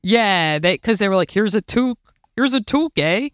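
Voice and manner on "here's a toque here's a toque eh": lightly put-on Canadian accent, lifted pitch. Guest imitates Canadians handing her a toque, light Canadian accent. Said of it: "I'm trying to do my Canadian accent".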